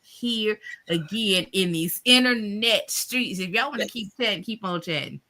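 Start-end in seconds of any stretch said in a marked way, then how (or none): 0.0-1.5 low, measured benediction; lower-pitched, preacherly encouragement; sign-off blessing. Real, not acted. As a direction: bless the viewers as you close. Closing blessing to viewers.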